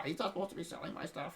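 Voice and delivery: high, frantic woman asking about her husband; frantic wife. Retold or imitated. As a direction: play the shrill-pitched worried wife hunting her husband. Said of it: "and she's like".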